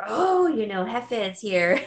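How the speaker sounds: mildly hammed-up heads-up; imitating workers' alert. Workers warning that the boss is here, mock alert.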